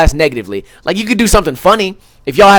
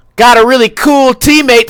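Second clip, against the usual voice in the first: heavily sarcastic, pitched-up tone; 7 semitones higher, 4 dB louder than usual. Acting out a teammate's caption the way he pictures it said: sarcastic.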